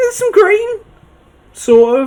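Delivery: very high, strained squeak, voice jumping up. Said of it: "my voice went really, really high there".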